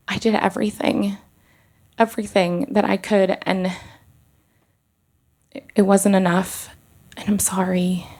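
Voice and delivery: fighting back tears, let it crack and fade; tearful plea. Retold or imitated. Telling the interpreter to pass her apology to the grieving mother, near tears. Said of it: "I started crying".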